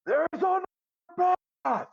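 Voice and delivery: booming high call across the room; magically amplified voice. Acted. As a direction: boom it out with magic. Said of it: "use a boom of my voice".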